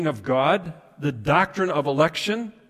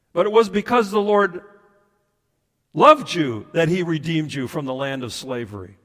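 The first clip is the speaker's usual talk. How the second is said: strong, projected verse reading; emphatic scripture reading; 2 semitones higher, 5 dB louder than usual. Acted. Preacher quotes Deuteronomy to the congregation, emphatic. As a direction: punch it out to the congregation.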